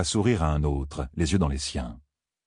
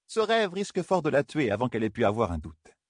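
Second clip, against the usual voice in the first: higher, grave warning elder; elder woman warning; 6 semitones higher than usual. Acted. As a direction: warn of danger gravely. Bair warns.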